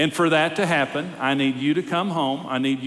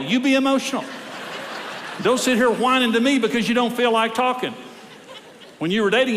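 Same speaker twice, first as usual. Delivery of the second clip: counselor scolding husbands who won't talk, fired-up pep talk; 7 semitones higher than usual. Acted. A preacher's building exhortation, pushing harder line by line. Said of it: "This is my little pep talk".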